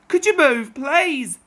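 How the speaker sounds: calling out. Acted. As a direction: call across the field politely. Fielders calling to the train.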